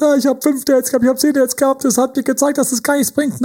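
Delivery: high-pitched mock moan about dates; high mock complaint about pointless dates; mock whiny complaint. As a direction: parody a defeated dater. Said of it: "sei großzügig".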